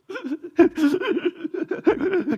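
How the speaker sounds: high, hitching sob sounds; mock sobbing gasps; imitated sobbing breath. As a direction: mimic breath caught in crying. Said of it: "엄청나게 울면 호흡이 얽히는 거".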